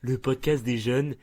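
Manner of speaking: Marc. Acted. Mocking Marc's podcast welcome, increasingly slow and drawn out. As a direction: imitate a host, slowing right down at the end. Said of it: "Ça, c'est Marc qui parle comme ça".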